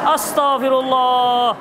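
slow, drawn-out astagfirullah through a laugh; exasperated laugh. Real, not acted. Ustadz exasperated by a question just answered, laughing slowly. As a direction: stretch astagfirullah out with a helpless laugh.

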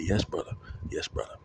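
imitated African accent; retold in an African accent; friend's African accent. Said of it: "let me stop doing the accent".

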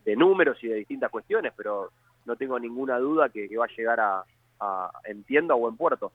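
talking with mouth full. Real, not acted. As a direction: speak through a mouthful of food. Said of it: "Perdón que estoy comiendo algo".

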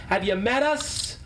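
playful jab; teasing. Real, not acted. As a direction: lean on us, mock offended. Teasing repeat.

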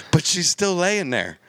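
high, slow mock whine of protest. Son protesting to his dad, slow high whine. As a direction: plead that the deer isn't dead yet. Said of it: "And I said".

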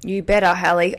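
you better, said as a joking threat; mock threat. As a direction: tease her with a fake threat. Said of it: "that was so threatening".

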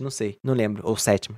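usual speaking voice

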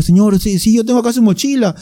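high-pitched imitation of old cabbie; put-on elderly driver, high and slowing midway; elderly taxi driver. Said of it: "se nota que era viejito".

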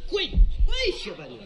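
loud, high command to kneel; stern order. Acted. Magistrate ordering the prisoner to kneel with a loud, stern command. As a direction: order him down on his knees. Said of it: "快，快".

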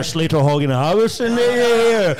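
slow, high plummy voice, marbles in the mouth; mock a posh estate agent's phone manner; sending up the posh accent of the agents on the phones. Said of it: "that posh marbles in their mouth fucking accent".

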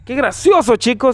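mock a dubbed actor's amusement; dubbed-voice joker. Friend imitating the guy from training, stilted dub voice. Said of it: "como aquel que decía en el training".

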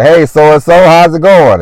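high, loud cheery hello; bright neighbourly hey; friendly greeting. Retold or imitated. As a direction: call out to an old friend behind the counter. Greeting the store owner.

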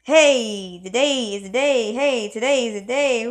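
loud, happy announcing of the day; laughing, loud cheer; joyful shout. Retold or imitated. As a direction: call it out like the best morning ever. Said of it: "Man, you just".

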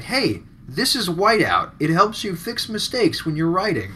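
plain ad voice. Pretend.

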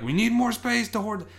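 high, loud mock complaint; exaggerated high-pitched plea; mock hoarder voice. Voicing the hoarders' imagined reasoning.

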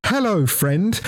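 high toy doll greeting; talking Winnie the Pooh. Retold or imitated. Bear doll calls out again, imitated high toy voice. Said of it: "Then I hear it again".

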